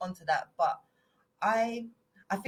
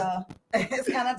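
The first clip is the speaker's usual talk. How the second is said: a slower, laughing Manc twang; Manchester accent; 6 semitones higher, 7 dB louder, slower than usual. Shown as a demonstration. Doing Manchester for friends, laughing Manc twang. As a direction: drawl it out in Manc. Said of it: "About Manchester".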